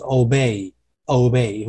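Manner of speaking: OBEY the American way, slowly pressed downward; American pronunciation. Shown as a demonstration. Teacher contrasting American with British, American-style obey. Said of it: "如果今天是美式的话".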